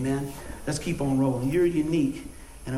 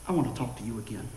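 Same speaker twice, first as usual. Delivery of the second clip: quiet, subdued doctor; 7 semitones lower, 6 dB quieter, faster than usual. Retold or imitated. Doctor softened, retold.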